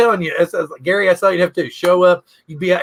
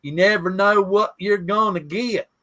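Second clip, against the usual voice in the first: a hint of a Southern simpleton; lightly voiced Southern film hero; Forrest Gump impression. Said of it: "Forrest Gump".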